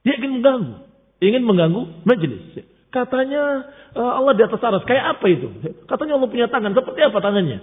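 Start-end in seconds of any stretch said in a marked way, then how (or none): 2.9-7.6 mock questioner. Mocking the questioner to Imam Malik.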